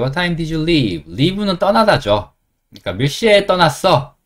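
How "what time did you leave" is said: very slow, word by word; slow model question. Shown as a demonstration. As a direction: spell it out slowly for learners. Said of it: "leave란 단어 배워볼게요". (천천히 또박또박)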